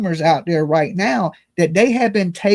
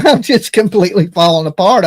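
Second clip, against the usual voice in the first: laughing; 7 dB louder than usual. Real, not acted. Laugh heard.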